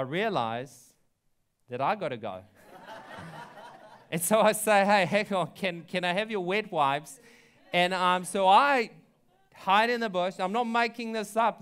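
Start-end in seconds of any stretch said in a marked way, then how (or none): 2.7-4.1 silent wheezing laugh; a voiceless burst of laughter; breathless laugh. Real, not acted. Laughing at own story. 4.1-11.6 laughing. Real, not acted. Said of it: "laughing while telling".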